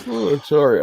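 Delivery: talking through a yawn; mid-yawn, stretched out. Real, not acted. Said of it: "I'm yawning".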